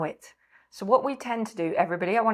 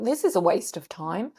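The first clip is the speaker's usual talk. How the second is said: mock irritated complaint; 3 semitones higher than usual. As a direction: play the grumbling restless mind, half-hearted. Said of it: "people at home might be getting irritated".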